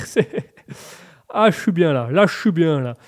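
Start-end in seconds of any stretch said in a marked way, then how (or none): 1.3-3.0 put-on comic French-Canadian accent; put-on Québécois accent. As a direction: lay on a Québécois twang. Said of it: "je fais l'accent québécois".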